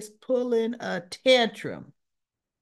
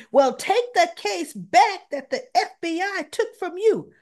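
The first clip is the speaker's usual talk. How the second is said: much higher, laughing through the demand; laughing mock retort; 10 semitones higher, 5 dB louder than usual. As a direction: toss it off with a disbelieving laugh.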